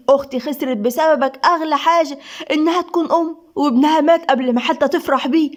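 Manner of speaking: mildly heated blame; fierce accusation. Acted. Woman blaming Seif for her sister's loss, mildly fierce. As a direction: accuse him with restrained ferocity. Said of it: "وهي بتبص لسيف بشراسة".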